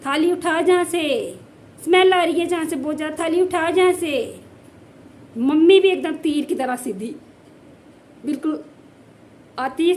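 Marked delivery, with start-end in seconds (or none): 0.0-4.4 hammed-up yell across the house to her mother-in-law; calling out. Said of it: "अपनी सास को आवाज़ दी है".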